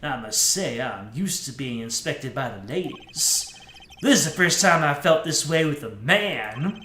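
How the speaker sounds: a light take on a suave cool guy. Acted. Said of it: "my generic cool guy voice".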